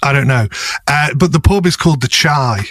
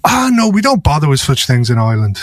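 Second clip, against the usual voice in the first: breezy imitated Irish accent. Irish friend dismissing worries about paperwork, mock Irish accent. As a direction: wave it away in a light Irish accent. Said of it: "my Irish friend".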